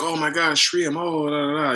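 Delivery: excited. Retold or imitated. A traveler finally finds his master, mildly excited. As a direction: imitate a thrilled seeker, lightly. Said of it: "he was just excited".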